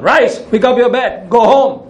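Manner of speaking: preacher repeats Jesus's command to the paralytic, declaring; healing command. Retold or imitated. Proclaim it high and firm. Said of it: "Healing command".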